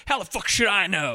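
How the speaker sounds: menacing Roy voice. Retold or imitated. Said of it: "and he goes".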